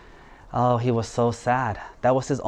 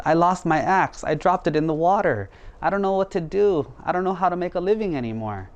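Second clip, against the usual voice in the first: mildly wailing, higher-pitched complaint; acted distress, pitched up and pleading; tearful lament; 5 semitones higher than usual. Woodcutter tells the spirit his axe is lost, mildly tearful lament. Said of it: "Why are you crying?".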